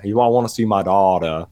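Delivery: lightly mocked Southern accent; Nicolas Cage. Podcaster quoting the hero who misses his daughter, mock Southern accent. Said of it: "such a weird Southern accent".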